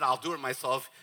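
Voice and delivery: quick, run-together phrase; rapid recital. Shown as a demonstration. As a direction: rattle it off as part of a list. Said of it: "let me just say these all real fast".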